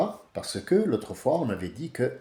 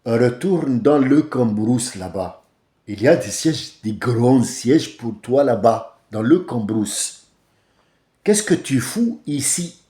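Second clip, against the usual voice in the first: slow, louder scolding; imagined retort; 4 dB louder, slower than usual. Pretend. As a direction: spell out the dismissal slowly and firmly. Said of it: "j'aurais bien voulu dire". (réplique imaginée, lente et cassante)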